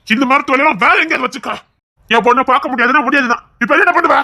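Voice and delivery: telling him off hard; angry shouting. Acted. Father shouting at the son-in-law at his door. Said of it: "இப்ப எதுக்கு கத்துறீங்க?".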